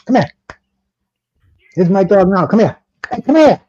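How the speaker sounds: loud call across the room; calling a dog. Real, not acted. Calling his dog over.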